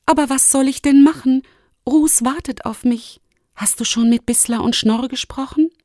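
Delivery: put-on high, pressing young voice; anxious young Lumi. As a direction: plead in a high voice for a way to help. (hohe, drängende Stimme der jungen Lumi)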